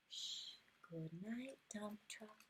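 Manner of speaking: soft sleepy whisper; bedtime whisper. Acted. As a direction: whisper goodnight so the child drifts off. Bedtime goodnight to truck.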